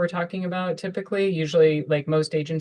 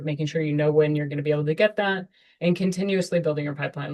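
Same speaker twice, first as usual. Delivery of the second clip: too much caffeine; faster than usual. Real, not acted. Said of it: "talking really fast".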